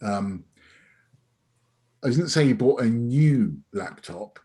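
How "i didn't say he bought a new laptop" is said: new pushed; stress on new. Shown as a demonstration. Trainer demonstrates emphasis, stress on new. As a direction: lean on new. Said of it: "It could have been secondhand".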